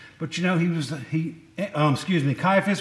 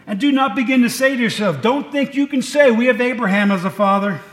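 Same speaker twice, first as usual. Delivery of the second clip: preaching rebuke; 4 semitones higher, 5 dB louder than usual. Acted. John the Baptist rebuking crowd.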